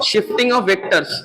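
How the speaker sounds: very slow, every word spaced out; slow emphatic repeat. Shown as a demonstration. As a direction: spell out Shifting of vectors slowly for the class. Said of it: "किस पे बेटा?". (शिफ्टिंग ऑफ वेक्टर्स बहुत धीरे, हर शब्द अलग)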